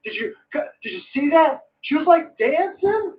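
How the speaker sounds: high mock gushing; gushing fan parody. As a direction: swoon over the shoes like a fawning fan. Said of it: "They go".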